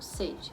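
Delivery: "sede" with a closed E, like sê-de; "sede" with closed ê, meaning thirst; closed e sound. Shown as a demonstration. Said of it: "e outra eu falo sem acento".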